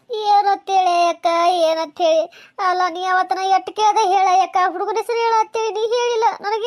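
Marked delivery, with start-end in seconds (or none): 0.1-2.2 slow, drawn-out wail; tearful lament. Acted. Weeping woman struggles to tell her friend, slow lament. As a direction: draw the words out in distress. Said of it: "ಎದ್ರ ಸಂಬಂಧ ಅಳ್ಳಕತ್ತಿ ಹೇಳು".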